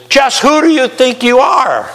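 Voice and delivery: high, pointed challenge; the conscience demanding an answer, affronted; indignant inner voice. Retold or imitated. Inner voice confronting the listener, high and indignant. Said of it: "this is a little more serious".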